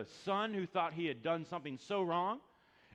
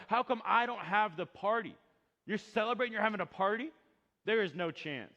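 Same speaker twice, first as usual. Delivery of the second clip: louder mock indignant brother; jealous older brother; 7 semitones higher, 8 dB louder than usual. Older brother protests the party, mock indignant. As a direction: protest like the left-out son.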